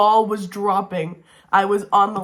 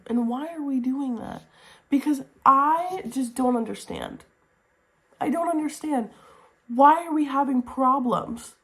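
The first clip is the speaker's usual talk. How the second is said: higher, exasperated whine; 4 semitones higher than usual. Real, not acted. Reviewer complaining about the couple's repeated fights, exasperated. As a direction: plead in frustration.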